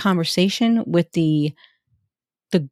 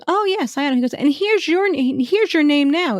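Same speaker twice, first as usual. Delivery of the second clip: mock guard; 9 semitones higher than usual. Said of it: "And he goes".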